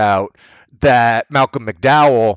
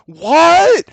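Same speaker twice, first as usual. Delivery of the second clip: startled waking what; 4 dB louder than usual. Retold or imitated. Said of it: "it goes".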